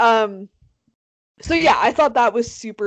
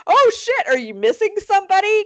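high-pitched mock surprise; hammed-up sudden realization; acted alarm; 10 semitones higher, 4 dB louder than usual. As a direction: play a startled cop at the door. Acted cops breaking news at door.

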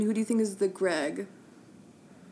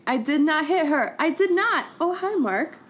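Tommy Wiseau impression; 4 semitones higher than usual. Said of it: "My favorite will always be the classic".

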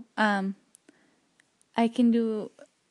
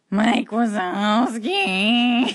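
Mike Wazowski voice; 6 dB louder, much slower than usual. Shown as a demonstration. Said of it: "from Monsters, Inc".

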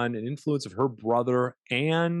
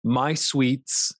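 sing-song hello; 7 semitones higher, 6 dB louder, much slower than usual. Acted. Sing-song greeting to listeners.

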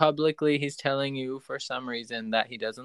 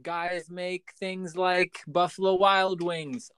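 mock outrage; 7 semitones higher, slower than usual. Real, not acted. Mock outrage about God as male.

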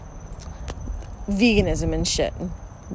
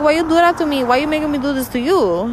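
mock pleading; 8 semitones higher, faster than usual. Pleading with her dog after punishing him, mock anguish. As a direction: beg the dog like it hurts you. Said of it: "Because I'm like".

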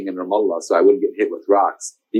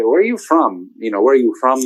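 imitating Amr Zaher. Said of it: "as Amr Zaher would say".

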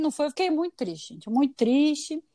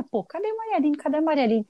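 impatient calling; 4 semitones higher than usual. Retold or imitated. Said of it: "disse que vinha".

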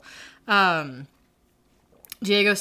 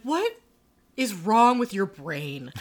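slow, drawn-out mock disbelief; exasperated disbelief; much slower than usual. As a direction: stretch it out like you can't believe it. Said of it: "lately I'm always just like".

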